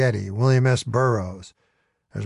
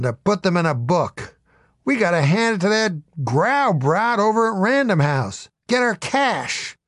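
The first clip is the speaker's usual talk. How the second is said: angry lecturing; 3 semitones higher than usual. Acted. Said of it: "starting to shout each other down".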